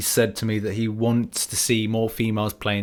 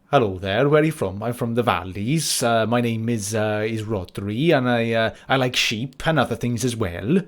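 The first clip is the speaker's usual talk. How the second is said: put-on Welsh accent; 2 semitones lower than usual. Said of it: "That's what a Welsh person sounds like".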